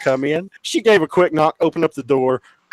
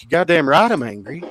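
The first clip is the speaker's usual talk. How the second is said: retold indignant comeback; mild-to-heated retold anger; angry retort; 6 semitones higher, faster than usual. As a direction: push back heatedly, pitch jumping up. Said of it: "he's angry".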